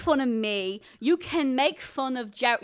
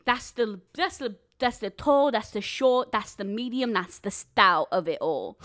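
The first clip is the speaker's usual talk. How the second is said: put-on Southern accent. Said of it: "mocking people's accents".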